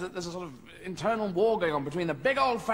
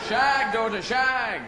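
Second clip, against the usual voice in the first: barked order; 4 semitones higher, 5 dB louder, much slower than usual. Acted. Ordering the daughter.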